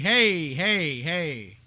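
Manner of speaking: loud, sharp calls of hey to cut him off; warning hey. Real, not acted. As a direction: stop him before he swears again. Co-host cutting off on-air profanity.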